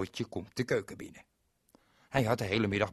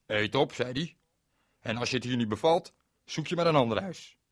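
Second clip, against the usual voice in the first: louder, firm order; stern father; 2 semitones higher, 5 dB louder than usual. Acted. Father tells Berend to eat, louder and firm. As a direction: lay down the law.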